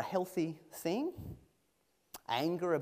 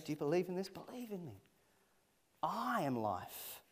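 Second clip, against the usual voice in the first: tender plea; 3 semitones higher, 4 dB quieter than usual. Acted. Jesus pleading softly with Mary.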